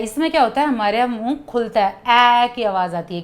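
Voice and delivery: usual speaking voice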